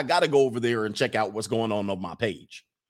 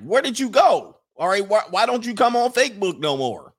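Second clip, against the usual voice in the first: higher, louder pestering family voice; mock nagging relatives; 7 semitones higher, 5 dB louder than usual. Whole family asking why he left Facebook, mock nagging. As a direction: play the family demanding an answer.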